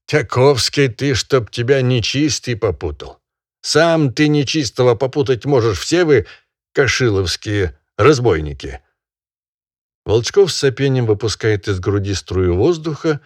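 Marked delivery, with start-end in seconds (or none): 0.1-8.8 loud, high lecturing master; scolding barin. Acted. Barin scolding the peasant over the dead bird, loud and high. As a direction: berate him like a pompous landowner.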